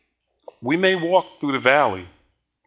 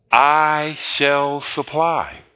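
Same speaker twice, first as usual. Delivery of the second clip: slow solemn quote; much slower than usual. Acted. Quoting God very slowly.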